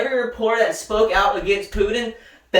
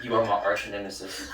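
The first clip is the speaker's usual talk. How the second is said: deep, soft, villainous rival voice; dramatic rival; 13 semitones lower, 10 dB quieter than usual. Acted. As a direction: play the anime arch-villain, low and menacing. Mock challenge, anime rival scene.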